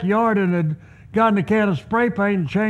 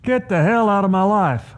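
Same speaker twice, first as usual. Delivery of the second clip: blunt eviction. Pretend. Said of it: "don't have to be spiritual".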